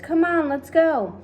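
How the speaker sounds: high, loud, drawn-out urging; rally everyone upstairs; eager. A narrator's reading. The friends urge each other upstairs, eager call.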